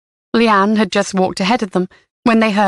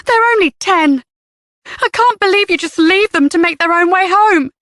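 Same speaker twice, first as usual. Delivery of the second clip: raised voice; 11 semitones higher than usual. A narrator's reading. Leanne berating the other mother, raised and indignant. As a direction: scold her with disbelief. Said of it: "raising her voice".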